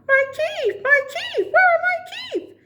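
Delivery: high, rising loud panic; frantic cry over lost teeth; panicked. Acted. Alan discovers teeth missing.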